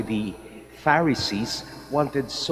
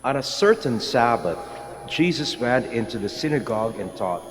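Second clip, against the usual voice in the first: Gospel reading. Acted. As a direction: proclaim it like Scripture at Mass. Priest proclaims the Gospel reading.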